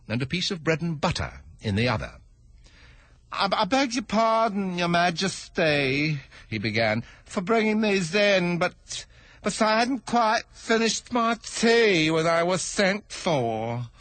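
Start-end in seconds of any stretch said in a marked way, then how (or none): 3.3-6.2 high, slow stammering hatter; timid stuttering hatter; nervous hatter. Acted. 7.3-13.9 high, slow stammering hatter; timid stuttering hatter; nervous hatter. Acted.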